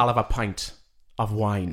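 put-on lightly done Welsh accent; a light Welsh accent, calm. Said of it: "Shall I do it?".

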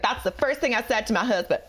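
put-on accent drifting southern; badly faked accent with a southern lilt; Hilaria impression. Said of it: "it's kind of southern there".

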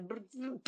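mock babbling lip noise; imitated stammering splutter. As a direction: splutter as if lost for words. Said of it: "Boujna qui balbutie".

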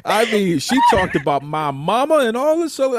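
high, laughing through the words; cracking up while telling it. Real, not acted. Laughing about her Alabama accent.

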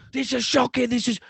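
high-pitched mock complaining, not shouted; imitated fans' outrage. Fans in the away end complaining, high mock outrage. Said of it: "just everyone screaming and shouting about chances".

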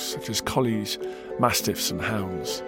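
ordinary delivery, nothing marked

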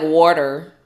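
Boston accent. Shown as a demonstration. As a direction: try a loud Boston WATER. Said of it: "I know Boston is, like".

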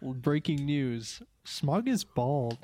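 slow mock breaking-news read; news anchor. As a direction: announce it like a grave headline.

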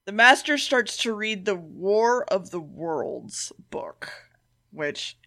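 hushed whisper while summarising the plot. Real, not acted. Podcaster recapping the episode to cohost, whispering. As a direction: whisper it, slowly, like a secret.

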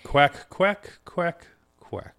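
high squawky cartoon duck quacks; Donald Duck voice. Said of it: "I can't even attempt to do it".

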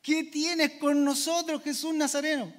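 a preacher's light take on a startled demon; hint of a fearful demon; demon crying out. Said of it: "y dijeron".

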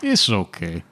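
a high, hesitant ship captain dodging the question; nervous captain voice. Acted. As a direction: stammer it out like a cornered sea captain. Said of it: "Captain Baker in broken speech".

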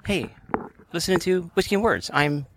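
high-pitched halting Shatner-style intro; mimicking an impression. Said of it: "my impression of you doing your impression of me".

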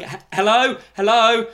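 re-enacted shouts for attention; shouting. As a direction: call out to the neighbours. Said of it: "And just shouting".

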